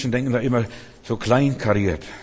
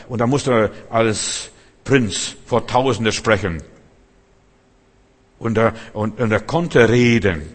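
emphatic preaching; 4 dB louder than usual. Acted. Preaching emphatically about Moses.

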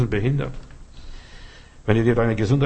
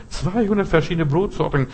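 "zweihundert" pitched higher in disbelief; incredulous emphasis; 6 semitones higher than usual. Real, not acted. Preacher mocking the bakery ad, incredulous "zweihundert". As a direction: repeat "zweihundert" as if you can't believe it.

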